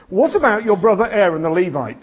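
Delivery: mildly irritated, pointed question; a touch of impatience with Moses; irritated God. Acted. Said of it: "he starts off in this sentence irritated".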